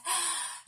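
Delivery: quick breath in. Shown as a demonstration. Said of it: "take a breath".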